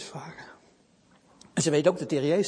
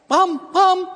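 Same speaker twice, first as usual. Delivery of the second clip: high, loud call for the lamb; anxious calling; 12 semitones higher, 9 dB louder than usual. Acted. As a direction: call him across the yard. Girl calls for lamb.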